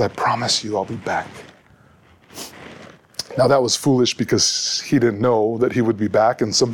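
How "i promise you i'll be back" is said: reassuring promise. Retold or imitated. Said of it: "He reassures her".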